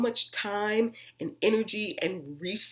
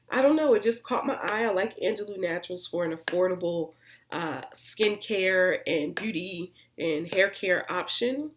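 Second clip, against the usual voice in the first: usual speaking voice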